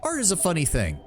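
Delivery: expressive storytelling with swinging pitch; book read-aloud. Acted. Player reading a found book to viewers, animated narration. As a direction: read the memoir aloud with lively rises and falls.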